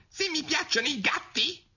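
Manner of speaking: shrill, very high, impetuous, squeaky mouse squeal. Narrator reads the mouse's retort to Alice, a shrill, impetuous squeaking cry. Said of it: "squittì il topo con un urlo stridulo e impetuoso".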